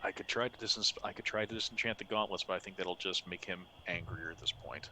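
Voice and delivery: hushed in-character plotting; whispering. Acted. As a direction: weigh the plan in a soft undertone. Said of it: "he's whispering as quietly as possible".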